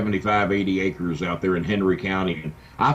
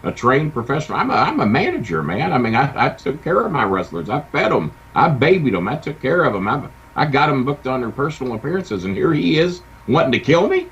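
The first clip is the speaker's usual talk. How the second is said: indignant; 4 semitones higher, 6 dB louder than usual. Real, not acted. Indignant retelling of being bullied.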